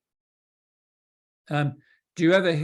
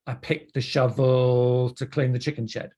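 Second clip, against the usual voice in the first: making up a story; 3 semitones lower than usual. Acted. Patient explaining a choice after the fact, making it up. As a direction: stretch the words as if inventing a reason. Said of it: "tended to make up a story".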